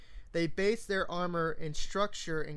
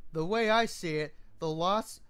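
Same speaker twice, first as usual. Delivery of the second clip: louder, hard and bitter; hateful anger; 3 dB louder than usual. Acted. Soldier to Celestia, louder with bitter anger. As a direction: spit out his contempt for slavers. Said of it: "The hate and anger in his voice".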